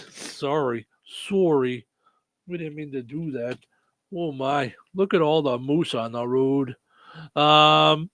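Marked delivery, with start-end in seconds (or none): 1.3-1.9 "Sorry" with a rounded Canadian "oh" vowel; Canadian-accented "Sorry", first vowel rounded. Shown as a demonstration. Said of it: "'cause it's Canadian". 2.5-6.8 put-on polite Canadian accent with rounded vowels; playful put-on Canadian accent; mock Canadian. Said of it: "'cause it's Canadian".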